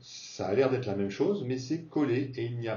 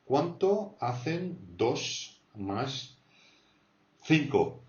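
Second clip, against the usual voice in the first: slow model question; 3 semitones higher, much slower than usual. Shown as a demonstration. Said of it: "teacher models question slowly".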